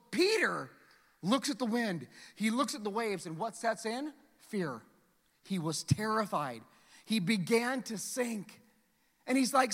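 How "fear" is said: dropped, ominous. Shown as a demonstration. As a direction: lower and softer on "fear". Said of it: "sermon emphasis".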